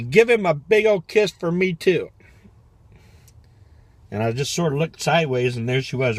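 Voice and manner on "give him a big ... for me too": loud, high hollering call out the car window; hollered call. Retold or imitated. Husband calling from the car, loud and high. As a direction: holler it across to her. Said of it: "he hollers up".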